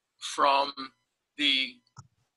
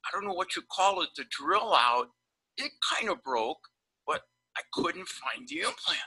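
imitating panicked dentist; 3 semitones higher than usual. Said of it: "talks like this".

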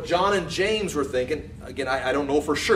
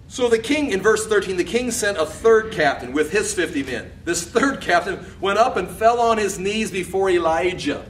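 scripture narration; 5 semitones higher, 4 dB louder than usual. A narrator's reading. Reads the verse aloud.

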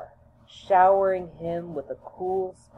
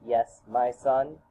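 slow, lower fatherly answer; deep resonating response; 3 semitones lower, slower than usual. Acted. Father answers his son, deep and slow. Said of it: "came the deep, resonating response".

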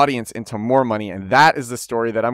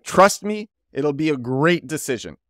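Gary Vaynerchuk; 3 semitones higher than usual. Retold or imitated. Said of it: "Gary Vaynerchuk is like".

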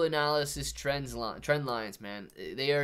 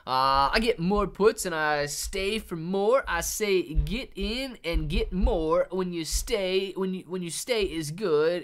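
mock voiced chat; 4 semitones higher, 4 dB louder, slower than usual. Voicing a viewer's chat message.

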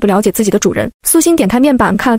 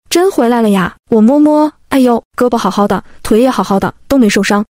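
joyful fussing over her, lightly voiced; overjoyed relief. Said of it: "吴氏喜不自禁". (带点惊喜的欢快语气)

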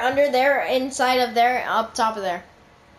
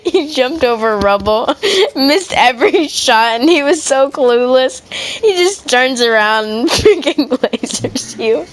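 excited; 7 dB louder than usual. Real, not acted. Excited loud retelling.

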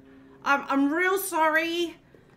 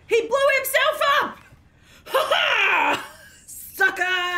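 loud, high laughing triumph; gleeful laughing shout; 7 semitones higher, 4 dB louder, slower than usual. Real, not acted. Player laughing as the enemy blows himself up. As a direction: crow it with a laugh.

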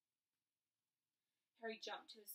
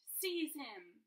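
a loud, higher scream; 6 semitones higher, 10 dB louder than usual. A narrator's reading. Voldemort orders Quirrell, screaming. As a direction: order the servant to grab him. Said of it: "Voldemort screamed".

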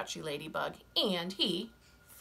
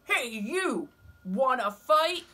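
high, loud, grumpy bug; grouchy ladybug voice; 6 semitones higher, 7 dB louder, slower than usual. Acted. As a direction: bark the challenge up high. Grouchy ladybug picks fights.

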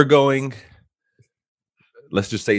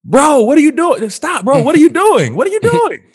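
high, frantic full-voiced yell; loud, high-pitched panicked hollering; yelling out the window; 10 dB louder than usual. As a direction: shout in alarm to stop someone outside the car. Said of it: "So I yell out the window".

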